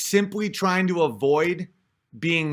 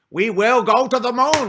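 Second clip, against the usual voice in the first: confident Kennedy-style proclamation, higher and louder; 6 semitones higher, 5 dB louder than usual. Retold or imitated. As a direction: announce it like a president from a podium. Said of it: "Kennedy is like".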